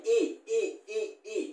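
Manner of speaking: teacher drills the ई vowel, ending almost silent; drawn-out ई sound. Shown as a demonstration. Teacher showing students the vowel sound, stretched ee. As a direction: repeat ई ई as a clear long ee, fading away. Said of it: "ई की sound निकल रही है".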